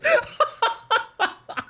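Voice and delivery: very high, breath-catching laugh; helpless laughing. Real, not acted. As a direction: keep cracking up helplessly. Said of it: "that made me laugh a lot".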